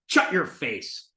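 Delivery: "Shut" said as "chut", slowly; brother's ch for sh in "Shut"; sh turned to ch. Retold or imitated. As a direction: start "Shut" with a ch and draw it out. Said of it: "So not even".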